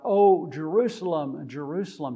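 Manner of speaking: mournful cry to Jerusalem; lamenting cry out. Retold or imitated. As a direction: call out to the city in sorrow. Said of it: "he cries out".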